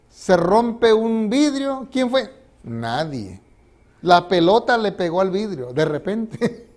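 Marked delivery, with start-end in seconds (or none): 0.1-1.9 dramatic telling. Acted. Dramatic pause before the crash. 1.9-2.4 demanding parent. Acted. Adult demanding who broke it. 2.6-3.4 put-on sheepish child. Child denying it.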